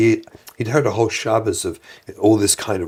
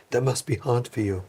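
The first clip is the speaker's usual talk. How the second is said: soft, understanding parent voice; internally calm; 7 dB quieter than usual. Retold or imitated. Parent answering a child's "I hate you", calm and soft. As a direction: acknowledge it softly, without reacting. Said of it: "you were internally calm".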